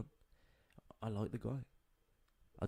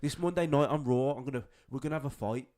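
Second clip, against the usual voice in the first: mock promo; 4 semitones higher, 5 dB louder than usual. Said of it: "cutting a promo like".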